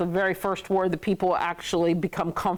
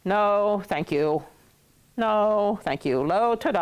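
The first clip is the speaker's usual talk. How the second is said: polite refusal; slower than usual. Acted. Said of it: "So then you can say".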